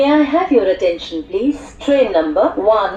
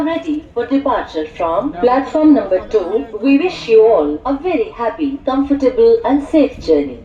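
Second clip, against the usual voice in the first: muffled railway station announcement. Acted. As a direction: announce the train over the platform speakers.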